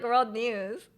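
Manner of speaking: slow it right down for the joke; slow deadpan. Real, not acted. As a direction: draw out "world news" very slowly. Punchline, said very slowly.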